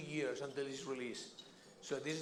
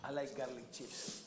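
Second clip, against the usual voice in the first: mouth full; 2 semitones lower, 4 dB quieter, slower than usual. Real, not acted. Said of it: "You eating the garlic?".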